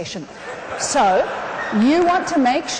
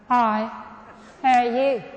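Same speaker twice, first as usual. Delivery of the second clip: understated, level small-talk hello; downbeat greeting; slower than usual. Acted. Mimicking pessimistic Australians greeting each other, downbeat. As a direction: greet with little energy.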